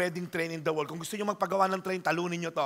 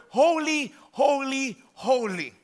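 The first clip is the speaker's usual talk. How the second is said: mild shout; 3 semitones higher, 4 dB louder, slower than usual. Retold or imitated. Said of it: "they're shouting to one another".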